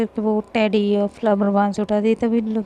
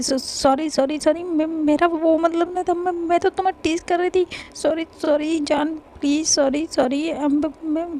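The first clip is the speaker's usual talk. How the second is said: pleading apology; 5 semitones higher than usual. Acted. Lovely apologizes to crying wife.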